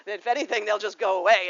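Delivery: real laugh while joking; amused, laughing aloud. Real, not acted. Laughing at Scorpio stereotype.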